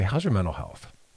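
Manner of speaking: sincere, concerned, caring, earnest tone. Showing how to ask people about their mental health: caring, earnest tone. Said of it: "You kinda say it like that with that tone".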